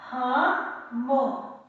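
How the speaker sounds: syllable by syllable. Shown as a demonstration. Teacher sounds out word after spelling.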